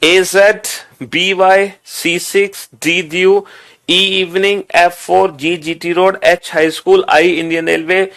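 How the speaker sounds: rhythmic memory-drill chant; recitation out loud. Shown as a demonstration. Teacher models reading aloud six times for students, drill chant. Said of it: "जोर जोर से बोल के".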